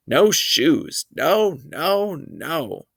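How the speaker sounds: put-on a little boy screaming at the shoe salesman; toddler scream. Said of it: "He screamed".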